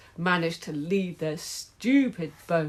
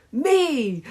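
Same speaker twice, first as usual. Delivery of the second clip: high, loud eager cry; screaming; 9 semitones higher, 7 dB louder than usual. Acted. Henry claiming the tickets, high scream. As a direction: grab the tickets with your voice. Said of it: "screamed Horrid Henry".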